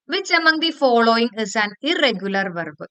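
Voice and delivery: slow, even exam read-out; reading the question slowly. Shown as a demonstration. Teacher reading a test question aloud to students, slow and even. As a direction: read each word out clearly for the class.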